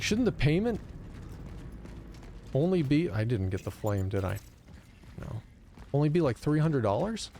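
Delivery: pitched well up on "Shouldn't", rising at the end; a mock exasperated customer repeating himself; incredulous re-ask. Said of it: "It's like".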